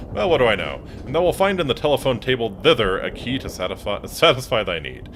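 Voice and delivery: lightly voiced Shakespearean host, mock formal; a hint of a stage Elizabethan butler, grandly polite; mock archaic manners to his dinosaur lodger; archaic old-fashioned speech. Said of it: "When did you start talking like this?".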